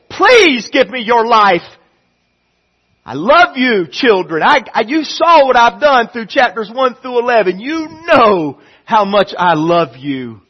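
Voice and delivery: put-on God begging his children to listen, loud; God pleading. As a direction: plead with open arms. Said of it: "God says".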